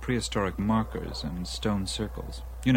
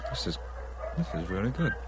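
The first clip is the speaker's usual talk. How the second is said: chewing while praising the food; mouth full; 5 dB quieter, faster than usual. Real, not acted. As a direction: talk through a mouthful. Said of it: "talk with my mouth full".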